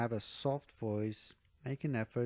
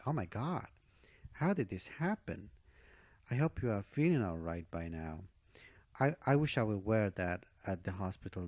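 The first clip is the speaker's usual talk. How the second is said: concerned friend, acted out with lively intonation; expressive, caring demo with rising and falling tune; 2 semitones lower than usual. Shown as a demonstration. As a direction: react to a friend's bad news with feeling. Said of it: "a human being who is caring about his friend".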